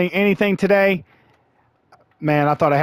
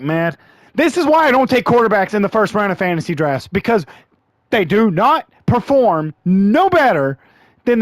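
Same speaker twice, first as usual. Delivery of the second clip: frustrated rant; 2 semitones higher than usual. Real, not acted. Gamer ranting at his missing quarterback, frustrated rant. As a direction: let it build into a rant.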